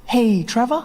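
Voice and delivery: high, sheepish put-on voice; body timidly getting its owner's attention; voice of his body. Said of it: "my body was like".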